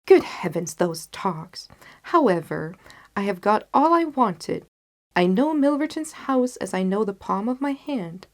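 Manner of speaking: a rueful laugh at himself, then assured; Holmes rueful then confident. Acted. Holmes voiced in story.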